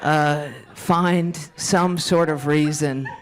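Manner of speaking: slow mock prayer with long pauses. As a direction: pray haltingly, phrase by phrase. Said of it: "Let's put our hands in prayer".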